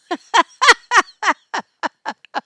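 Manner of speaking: long, high burst of laughter; loud laugh. Real, not acted. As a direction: cackle loudly at your own threat. Laughs at calling up Guido.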